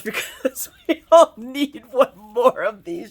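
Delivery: loud laughing gush. Real, not acted. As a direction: laugh through it.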